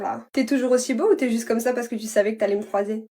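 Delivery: ordinary talk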